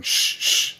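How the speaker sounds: unvoiced hushing shh; whispered shush. Lawyer leaning in to hush his client, whispering. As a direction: hush the client under your breath. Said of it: "leaning in as Alex's lawyer".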